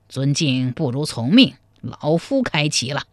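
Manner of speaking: a hint of a courteous old player; lightly voiced old man. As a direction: lightly play an old man accepting politely. Narrator voices the old chess player. (略带老者腔，从容客气)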